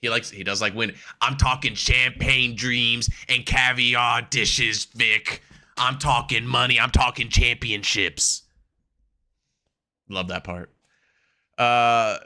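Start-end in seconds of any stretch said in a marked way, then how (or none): 1.2-8.4 slow, drawn-out wrestler promo imitation; hammed-up champagne dreams promo; promo quote. Quoting the wrestler's promo to his co-host, slow and grand.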